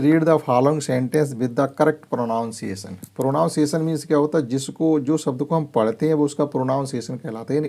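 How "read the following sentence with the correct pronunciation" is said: slow reading aloud. Shown as a demonstration. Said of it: "Question three".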